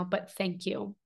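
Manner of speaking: a little choked up, voice lifting; real emotion catching in the throat; emotional. Real, not acted. Thanking her supporters, suddenly emotional. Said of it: "I didn't know I was gonna get emotional right now".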